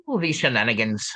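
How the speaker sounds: a light stab at an Irish lilt; lightly voiced Irish accent; attempted Irish accent. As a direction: try a Scotch-Irish brogue, half-hearted. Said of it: "can I hear your attempt at doing some sort of Scotch-Irish shenanigans".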